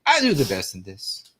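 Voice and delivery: high, loud put-on old man voice; squeaky overexcited sketch-comedy old man; old man impression. Doing the sketch-show old man for his co-host, high and loud. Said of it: "he sounds like the old man from I Think You Should Leave".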